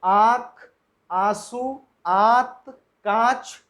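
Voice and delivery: आँख, आंसू, आंत, कांच said slowly with nasalised vowels; pronunciation demo. Shown as a demonstration. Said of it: "अब इसको बोल करके देखें". (अनुनासिक शब्दों का धीमा उच्चारण)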